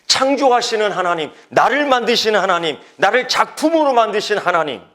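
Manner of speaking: 작품으로 said out loud and strong, falling; proclaimed. Shown as a demonstration. Pastor proclaiming to the congregation, full voice. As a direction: declare it to the church. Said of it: "repeats the line in a whisper".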